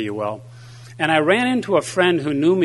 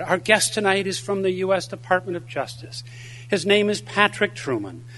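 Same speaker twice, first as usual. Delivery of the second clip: higher-pitched, mock-formal host; church lady's introduction; 6 semitones higher than usual. Church lady introducing the evening's guest speaker, in a high-pitched announcer manner. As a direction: announce the guest in a raised, earnest voice.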